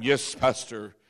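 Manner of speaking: mock a facade of meek politeness; fake polite. Members faking politeness when the pastor walks in, mock sweet. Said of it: "and I walk in".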